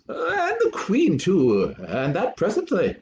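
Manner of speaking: put-on high, slow old courtier voice; Polonius. Polonius answering Hamlet about the queen, high and slow. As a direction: lift it up and drag it out like a fussy old adviser. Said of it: "Polonius says".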